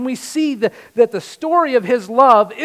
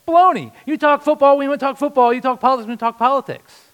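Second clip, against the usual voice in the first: higher, louder preaching push; forceful rebuttal; 4 semitones higher, 4 dB louder, faster than usual. Real, not acted. Preacher to his congregation, forceful and loud. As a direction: slam the excuse down.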